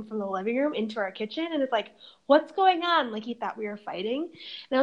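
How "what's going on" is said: dad's alarmed question. Retold or imitated. Dad's startled question in a story.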